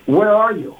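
a hint of an impatient teenage daughter; lightly voiced annoyed teen. Daughter voiced calling dad.

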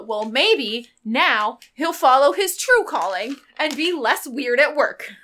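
measured, carrying declaration. Acted. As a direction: project it pointedly so others overhear. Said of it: "I say this a little louder".

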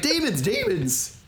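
high, drawn-out cry of alarm; mock panic. Co-host imitates man flipping out at kids, mock panic. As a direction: cry out slowly in hammed-up fright.

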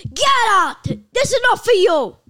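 loud, high mock shout; slow, bellowed retelling of being kicked out; imitated angry dismissal. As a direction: throw them out, hammed-up. Retold being thrown out of club.

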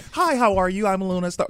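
a hint of a bubbly on-camera hello; porn intro voice. Host imitating her video voice, light perky greeting. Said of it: "voice when you see the videos".

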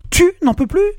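husband mocking his wife's complaint; mocking outraged shout. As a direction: sneer her words back at her. Alex throws her words back.

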